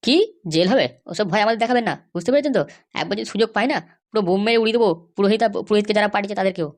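wife of the MLA snaps back at the lawyer angrily; angry threat. Acted. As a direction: threaten to blow them all up, voice pitched high and furious.

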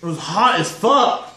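talking with a burning mouth; spicy salsa still in mouth; mouth full of hot food. Real, not acted. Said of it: "It's burning my lips".

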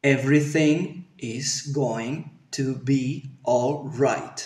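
slow English, word groups separated; careful intermediate pronunciation. Shown as a demonstration. Teacher offers a middle-ground example, careful pronunciation. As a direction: give a clear, softened model sentence. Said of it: "prueba algo intermedio".

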